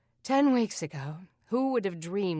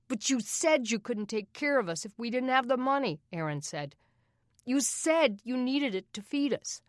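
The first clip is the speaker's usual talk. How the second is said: put-on boy voice; 7 semitones higher, 4 dB louder than usual. Aaron accusing Doug.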